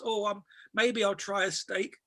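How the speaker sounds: slow, tentative order; feigned reluctance. Retold or imitated. Scammer ordering first-class steak, slow mock hesitancy. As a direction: pick each item slowly, as if only just thinking.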